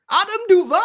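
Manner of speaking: sudden high, loud cry of the name; leaping up in pitch with glee; excited outburst. Real, not acted. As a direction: blurt the name out in delight. Suddenly remembers a signing.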